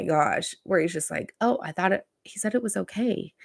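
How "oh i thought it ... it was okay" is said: unvoiced, small, apologetic; meek whispered excuse. A singer excusing himself to Bill Burr, meek whisper. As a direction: whisper it like a caught-out kid.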